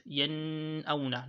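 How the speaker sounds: "yen auna" with the n of "yen" held long; wrong emphasised nun. Shown as a demonstration. Teacher showing students the mistake, over-held n in "yen auna". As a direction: drag out the n in "yen" before "auna". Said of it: "You laid emphasis on it".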